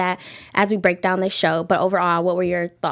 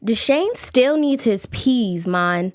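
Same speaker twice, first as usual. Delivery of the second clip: put-on London accent; much slower than usual. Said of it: "my London accent is horrible".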